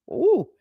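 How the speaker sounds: short, high-pitched "ooh"; taunting ooh. Acted. Reader voices Missus Heathcliff's taunt.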